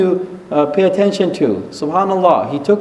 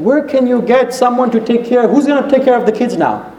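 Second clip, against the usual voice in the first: higher-pitched, mildly exasperated demand; upset wife; 5 semitones higher than usual. Retold or imitated. Wife asking her husband about childcare, upset. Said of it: "She got upset".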